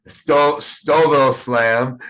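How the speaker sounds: correcting the show name through a laugh; laughing correction. Real, not acted. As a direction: laugh it out while fixing the name. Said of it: "I'm sorry".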